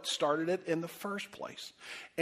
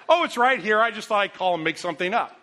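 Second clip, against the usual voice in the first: mock her answer with heavy sarcasm; sarcastic mock reply; 3 semitones higher, 6 dB louder than usual. Husband mocking his wife's phone call, sarcastic.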